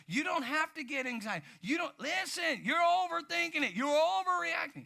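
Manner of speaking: reassurance building into a high shout; reassuring friend. Retold or imitated. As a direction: start easy, end yelling to calm them down. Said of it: "you're looking at them going".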